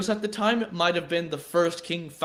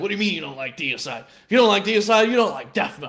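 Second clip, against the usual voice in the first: put-on, nearly angry, annoyed ranting voice, louder; 5 dB louder than usual. Retelling a clip heard on a phone: imitating someone almost pissed off. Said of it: "that was sounding, like, almost pissed off to me".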